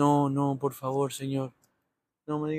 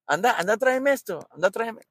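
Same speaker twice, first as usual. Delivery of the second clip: lightly voiced parent barking errands, higher; a hint of a parent ordering the kid around; bossy parent; 4 semitones higher, 4 dB louder than usual. Parent sending the kid on errands, mock bossy call.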